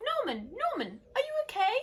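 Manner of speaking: high, loud anxious calling; worried snails. Acted. Snails checking on fallen Norman, high worried calling. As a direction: call out to him in worry. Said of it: "asked the snails".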